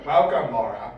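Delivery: deep, low evil overlord; Dark Lord voice. Acted. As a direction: drop into the villain's deep voice. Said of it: "that's my Mondor Dark Lord voice".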